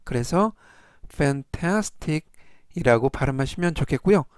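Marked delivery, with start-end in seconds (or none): 1.1-2.2 fantastic stretched slowly, the middle A stressed. Shown as a demonstration. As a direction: draw out fantastic, leaning on the A. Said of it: "강세는 가운데 부분에 있는 알파벳 A의". (fantastic 가운데 A에 강세)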